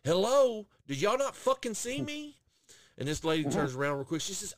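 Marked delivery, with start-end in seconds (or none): 0.0-2.4 loud, higher, exasperated call; fed-up hello. Retold or imitated. Customer ignored at the McDonald's window, loud exasperated call. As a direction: demand attention through the window. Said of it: "stuck my hand in the window ... was like".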